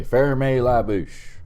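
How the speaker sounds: high, loud, slow teacher impression; drawn-out imitation of a teacher; French teacher quote. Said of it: "She would say".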